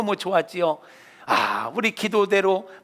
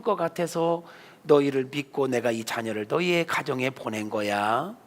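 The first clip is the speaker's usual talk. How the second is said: voice of God; 3 semitones lower than usual. Acted. God comforting the grieving father in a dream, low and gentle. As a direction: speak as a loving God, reassuring. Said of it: "하나님께서 그에게 나타나셔서 하시는 말씀".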